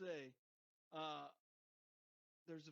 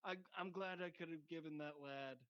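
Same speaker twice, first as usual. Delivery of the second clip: lightly voiced rueful Ken; a hint of Ken. Imitating Ken regretful.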